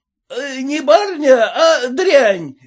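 high-pitched scolding peasant; shouted abuse. A narrator's reading. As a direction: keep yelling insults after them. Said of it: "кричал он".

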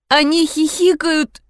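high, plaintive moan. A narrator's reading. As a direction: moan it, understated fear. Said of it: "простонала я". (жалобный тихий стон)

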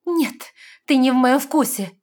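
high, loud rejection; indignant cry. A narrator's reading. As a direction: push him off with words. Heroine rejecting him.

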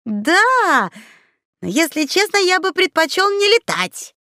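high, sheepish confession; embarrassed admission. A narrator's reading. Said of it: "смущённо признался овощелюд".

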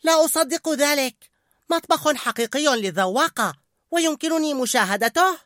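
very high thrilled rat voice; excited. A narrator's reading. Remy watching the kitchen, excited. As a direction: gush with wonder. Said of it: "قال ريمي بحماسة".

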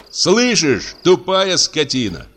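angry shout. A narrator's reading. Patient yelling at the guard, furious. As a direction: hurl the insult at the guard. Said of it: "крикнул Иван Дмитриевич".

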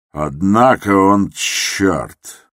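drawn-out, half-aloud thought; slow inner thought. Acted. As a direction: savour the thought slowly.

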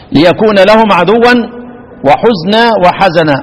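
slow chanted recitation of the verse; teacher recites verse to the class. Shown as a demonstration. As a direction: recite it slowly, measured. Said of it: "teacher recites verse slowly".

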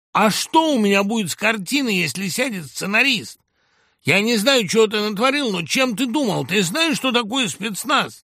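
high, loud furious tirade; screaming down his screenwriter, high and loud; thug's hysterics. Acted. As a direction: rant at him like a hysterical boss. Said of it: "эту блатную истерику".

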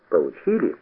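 low, quiet gloating question; spiteful smile. A narrator's reading. Boy taunts them after tossing the gun, spitefully smiling. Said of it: "злобно улыбнулся и спросил".

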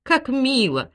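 honeyed pleasantry; sweet voice. A narrator's reading. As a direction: coo it with put-on delight. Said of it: "воскликнул Николай Николаевич сладким голосом".

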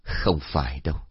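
soft, sighing reply; old master sighs before he answers; sighing softly. Acted. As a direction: breathe it out gently as you answer. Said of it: "Thầy Lương khẽ thở dài đáp".

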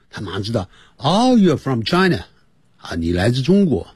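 ordinary talk, nothing marked

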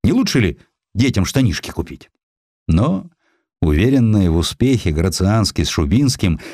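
ordinary delivery

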